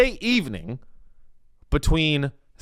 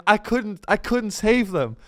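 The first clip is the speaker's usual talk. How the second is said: mock crying; 8 semitones higher than usual. Broken controller in fetal position, mock sobbing wail. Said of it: "crying and being like".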